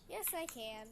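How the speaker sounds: flat robotic monotone. Pretend. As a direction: speak like a robot. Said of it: "girl, you sound like a robot".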